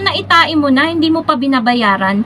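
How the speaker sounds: ordinary delivery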